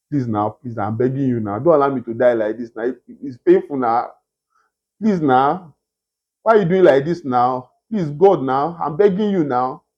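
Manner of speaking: grovel pathetically to mock begging; mock whining beggar. Shown as a demonstration. Preacher mocks a begging Christ, low whining plea. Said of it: "what you saw was".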